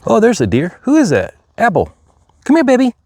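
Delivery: high, sweet coaxing voice for animals; deer voice. Real, not acted. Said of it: "That's my deer voice".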